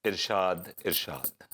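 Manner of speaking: इरशाद said apart, with a clear R and SH; gentle correction. Acted. Corrects her mispronounced word. (इरशाद का सही उच्चारण दोहराते हुए)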